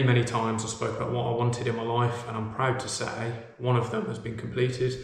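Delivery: echoey empty room; hallway echo. Real, not acted. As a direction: voice bouncing off bare walls. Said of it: "As you can tell by the echo and the noise".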